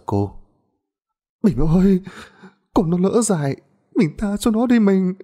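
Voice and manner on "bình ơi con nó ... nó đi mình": high, desperate wife's plea; pleading wife. A narrator's reading. Wife begs husband to spare daughter, high and desperate. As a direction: beg her husband to spare the child.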